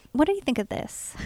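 small, high imitated voice; little voice. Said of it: "I hear this little voice".

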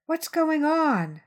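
just woken, calling out slowly; sleepy mother. A narrator's reading. Mother woken at night calls from her bedroom, slow and sleepy. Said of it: "my mother's sleepy voice".

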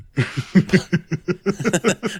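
high, loud amused laugh. Real, not acted. Host laughing at a co-host's pretentious phrase, loud laugh. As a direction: burst out laughing.

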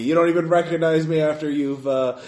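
booming bitter roar. Acted. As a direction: roar out a ruined life. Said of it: "that same booming voice".

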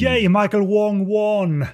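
slow, high, hammed-up cheer; mock cheer. Co-host teasing the guest with a hammed-up slow cheer. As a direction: pretend to celebrate the winner. Joking about who was crowned.

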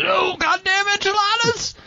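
high-pitched comic groan of dismay; agonized outburst. Retold or imitated. Retelling a stomach-cramp scene, mock agony. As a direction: cry out as cramps hit, at normal volume. Acted cry of cramping character.

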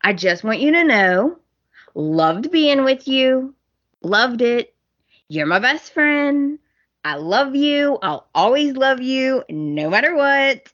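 a hint of a lovesick ex pouring it on; sweet campaign voice. To her ex, a lightly mocked sugary plea. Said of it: "She's like".

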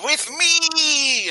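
high, slow rallying call to arms; rallying battle cry. Acted. Bee leader rallies the swarm, a high rallying cry. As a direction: rouse the troops behind you.

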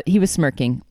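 even, measured audiobook-style reading; story narration. A narrator's reading. Author reading the dream chapter to co-host, measured narration. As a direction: read the dream as steady narration.

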